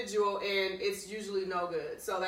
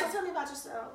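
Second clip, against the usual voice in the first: giggly flirtation; 8 semitones higher, 5 dB quieter than usual. Acted. Repeats flirty line amid laughter.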